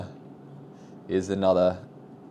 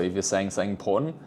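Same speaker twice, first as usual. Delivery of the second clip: quick and light; sped up; faster than usual. Shown as a demonstration. Coaching viewers, speeding up an unimportant phrase. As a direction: rush through it. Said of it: "rate of speech".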